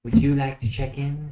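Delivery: calling to the group. Acted. Host repeats offer to group.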